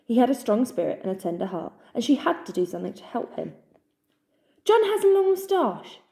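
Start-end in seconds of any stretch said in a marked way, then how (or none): 4.7-6.0 much higher, louder cry. A narrator's reading. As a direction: blurt it out to the whole hollow. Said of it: "she cried".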